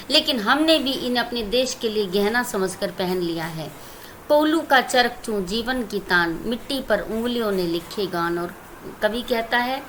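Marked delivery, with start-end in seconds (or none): 4.3-8.4 poem recitation. Shown as a demonstration. Teacher recites poem stanza.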